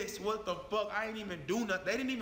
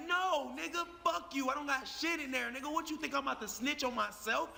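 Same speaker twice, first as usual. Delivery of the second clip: higher-pitched indignant comeback; defiant refusal; 4 semitones higher than usual. Acted. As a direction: act out refusing to snitch on yourself. Acts out defiant answer to police.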